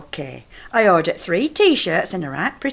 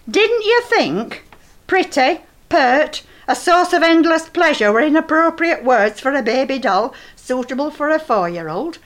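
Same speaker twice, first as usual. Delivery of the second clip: son's outraged question; 6 semitones higher, 3 dB louder than usual. Retold or imitated. Old woman voicing her son shouting over the doll box. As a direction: mimic Ian spelling out the doll's description. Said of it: "He shouted as he tore open box".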